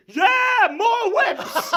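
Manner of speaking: loud, high excited shout; crowd cheer. Acted. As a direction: cheer it like a rowdy rioter. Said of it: "some of the crowd go".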